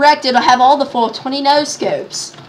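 mock British threat; hammed-up British trash talk; put-on British accent. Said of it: "you have to have a British accent".

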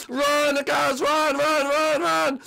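high, loud mock panic yelling; panicked shout. Escaping player yells at the others to run for it. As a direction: yell at everyone to flee, hammed-up terror.

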